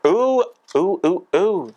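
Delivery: high delighted oohs; excited cooing. Real, not acted. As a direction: squeal with delight, rising high. Excited over best plant.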